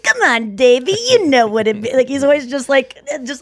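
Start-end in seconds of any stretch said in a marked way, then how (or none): 0.0-1.9 a lightly voiced laid-back surfer; easygoing dude talk. Surfer dad talking to his son, easygoing surfer dude. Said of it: "surfer dude kind of energy".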